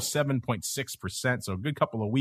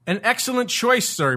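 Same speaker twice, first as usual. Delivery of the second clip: snooty waiter; 9 semitones higher, 3 dB louder than usual. Acted. Host praises guest's pick, waiter-like.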